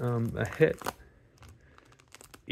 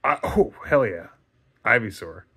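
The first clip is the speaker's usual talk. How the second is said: excited; 8 dB louder than usual. Real, not acted. Excited pull of a good card.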